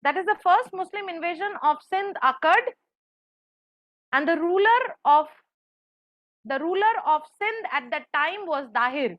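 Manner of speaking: slow, careful dictation. Shown as a demonstration. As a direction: dictate it word by word. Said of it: "আমি পুরোটা বলে দিই একবার".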